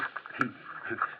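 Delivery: low, breathy little chuckle; soft self-amused chuckle; quiet chuckle. Acted. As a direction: chuckle softly to yourself. Chuckles while opening the safe.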